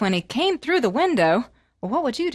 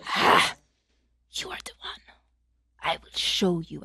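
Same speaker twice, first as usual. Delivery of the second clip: menacing; 5 semitones lower than usual. Acted. Sorceress menaces prince.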